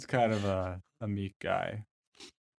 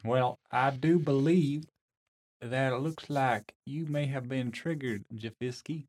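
lightly voiced robot, slow and prim; robotic voice; 2 semitones higher than usual. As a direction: chirp it like a polite security robot. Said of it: "chirps in a robotic voice".

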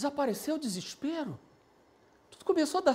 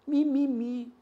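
mocking whine; slower than usual. Shown as a demonstration. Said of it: "o que que é gato gago?".

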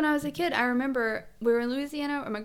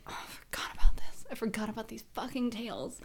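mock whisper. Mock diners forgetting tails.

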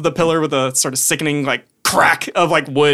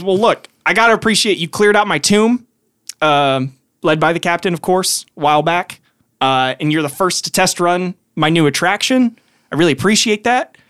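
gnome sorcerer; 2 semitones higher than usual. Acted. GM voices Maximilian the gnome.

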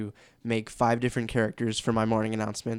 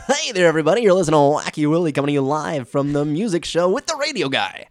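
zany morning radio DJ, much higher and louder; Wacky Willie; 5 semitones higher, 9 dB louder than usual. Shown as a demonstration. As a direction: hype it up like a wacky morning-show host. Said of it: "it's kinda like the".

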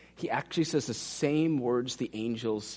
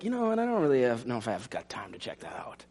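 dismissive excuse; 2 semitones lower, faster than usual. Retold or imitated. Voicing an indifferent listener.

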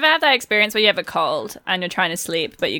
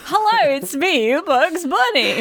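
high-pitched, badly faked cartoon rabbit; Bugs Bunny; 7 semitones higher, slower than usual. Improvising an impression nobody knows, high cartoon voice. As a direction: introduce yourself as a squeaky improvised rabbit. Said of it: "do a Bugs Bunny impression".

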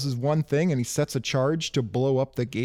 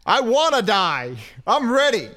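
crazed daredevil shout; 5 semitones higher, 6 dB louder than usual. Acted. Co-host joining the bit as the reckless driver, crazed shout. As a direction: shout it like a thrill-crazed racer.

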